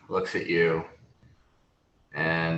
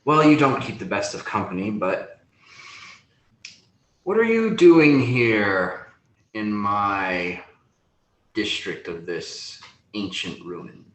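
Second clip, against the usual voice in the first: sneering; 4 dB louder than usual. Acted. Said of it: "a sneer comes across his face".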